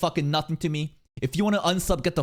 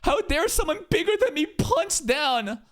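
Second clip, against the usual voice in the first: mock outraged critic; slower than usual. Critic accusing the creator of punching down, high slow mock outrage. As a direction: ham it up like an offended critic. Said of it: "people say shit like".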